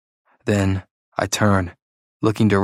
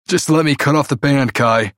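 pleading; 5 semitones higher than usual. Acted. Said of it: "sounding like a plea".

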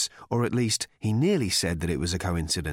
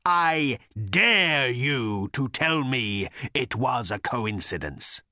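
menacing dare; 2 semitones higher, slower than usual. Acted. Voice dares Arthur.

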